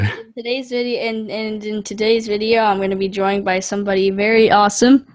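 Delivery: host intro. Shown as a demonstration. Son taking over as host of dad's show. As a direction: kid playing video host. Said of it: "I'm just gonna have you do it now".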